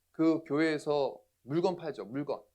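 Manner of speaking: slow, pointed mock accusation; angry confrontation. Angry brother accuses pastor's church of selling goods, retold confrontation. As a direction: imitate a mildly angry interrogation. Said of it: "화가 나가지고 저한테 막 따지는 거예요".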